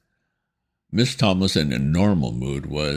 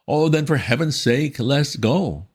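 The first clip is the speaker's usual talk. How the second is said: put-on flustered young gentleman; 12 semitones higher, 4 dB louder than usual. A narrator's reading. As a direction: stammer like a rattled young gent. Wooster voiced in story.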